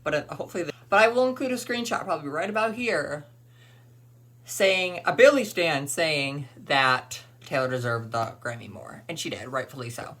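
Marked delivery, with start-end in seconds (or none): 5.1-10.2 winded at the end of a long rant; out of breath and dehydrated. Real, not acted. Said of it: "I'm kind of out of breath".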